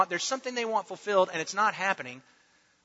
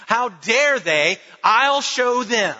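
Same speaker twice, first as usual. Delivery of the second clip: slow, louder, indignant fight-back; mock defiant outburst; 3 semitones higher, 7 dB louder, much slower than usual. To an accuser, mock defensive slow outburst. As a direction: dig in like you've been wronged and won't take it. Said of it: "I'm gonna get defensive and I'm gonna fight back".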